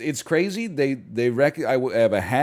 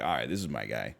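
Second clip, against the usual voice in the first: low-key approval; 12 semitones lower, 7 dB quieter, faster than usual. Retold or imitated. Quoted relieved inner reaction.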